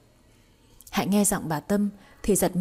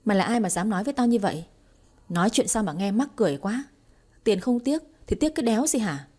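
rude retort; 2 semitones higher, faster than usual. Acted. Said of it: "thốt ra mấy câu tục tĩu".

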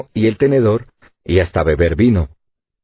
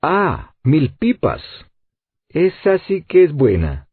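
high-pitched outburst of astonishment; surprised exclamation; 6 semitones higher, slower than usual. A narrator's reading. Sailor amazed as the ladder drops, exclaiming to the engineer. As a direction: exclaim it high, amazed but not shouting. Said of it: "exclamó el marino mirando a Cyrus Smith".

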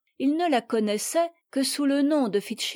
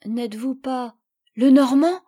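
quick, louder eager question; lively; 2 semitones higher, 6 dB louder than usual. Acted. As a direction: burst out with sudden recognition. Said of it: "ajouta-t-elle vivement". (vivement, plus fort)

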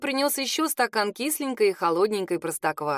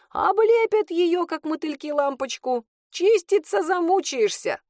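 an old witch teaching the girl on the phone, lightly voiced; lightly voiced Matryona; 4 semitones higher than usual. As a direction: play the lively old witch lecturing, lightly. Narrator voicing Matryona on phone.

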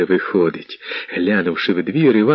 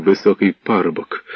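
ordinary delivery

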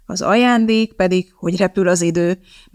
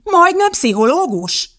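"Majdnem pszichológus?" thrown back much higher and slower, scoffing; incredulous mock repeat; 11 semitones higher, 4 dB louder, slower than usual. A narrator's reading. Elizabeth scoffs at Fresk's claim, high and slow in disbelief.

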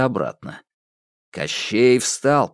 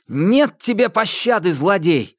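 proclaiming; 9 semitones higher than usual. A narrator's reading. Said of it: "возвестил Иван".

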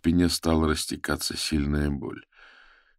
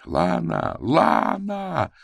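second call much higher, far-reaching; calling for help; 13 semitones higher, much slower than usual. A narrator's reading. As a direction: scream her name for help. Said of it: "я звал её на помощь".

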